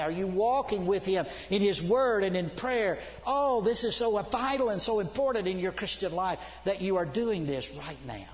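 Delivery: pleading, emphatic sermon delivery; impassioned preaching. Real, not acted. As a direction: implore the congregation with conviction. Preaching with force.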